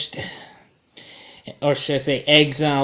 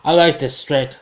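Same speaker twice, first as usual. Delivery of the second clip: building to a big hammed-up shout, much higher and louder; booming Thor; 3 semitones higher, 7 dB louder, faster than usual. Fan quoting Thor demanding more coffee, hammed-up shout. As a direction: proclaim it like a god in a diner. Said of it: "He's like".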